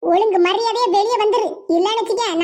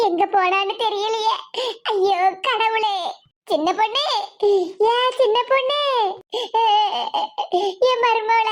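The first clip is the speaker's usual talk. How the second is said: tearful wailing; 2 semitones lower than usual. Acted. Old woman searching for her lost daughter-in-law, wailing. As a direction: call out in grief, dragging the last syllables. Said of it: "அழுதுகிட்டு இருக்காங்க".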